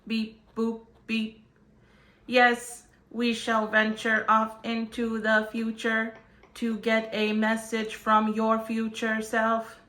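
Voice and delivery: lightly voiced robot voice; beeping robot voice, lightly done. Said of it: "Mister Robot".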